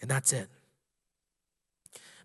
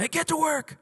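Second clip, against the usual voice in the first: pitched-up, half-shouted retold order; imitated boss's yell; 13 semitones higher than usual. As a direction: imitate a boss calling a worker back. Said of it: "starts yelling at him".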